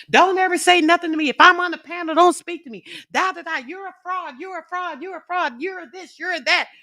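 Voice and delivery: very high mimicked tantrum, loud at first; mock angry kid. Woman mimicking the man ranting on the panel, like an angry kid. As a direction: rattle off accusations like a little kid ranting. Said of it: "Sounded like one of my kids getting angry".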